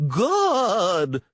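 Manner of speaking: high, loud yell; yelling official. Acted. Official yelling for the guard while crawling. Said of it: "the purple one yelled".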